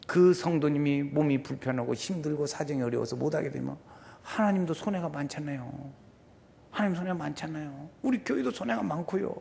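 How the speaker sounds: acted hushed supplication; intercessory prayer. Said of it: "저도 막 그렇게 중보기도 해요".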